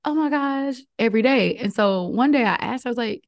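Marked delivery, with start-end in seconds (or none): 0.0-0.8 higher, lightly gushing mimicry; giddy imitation. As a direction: mimic someone smiley and giddy. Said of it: "shows up smiley, giddy".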